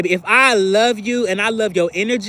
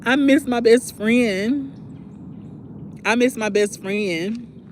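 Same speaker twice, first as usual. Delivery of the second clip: whiny missing; 3 semitones higher, much slower than usual. Retold or imitated. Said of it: "I'd be like".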